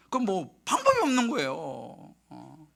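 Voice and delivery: normal talking voice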